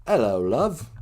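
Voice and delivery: light mock-English accent. Shown as a demonstration. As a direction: greet like an English local. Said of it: "An English accent".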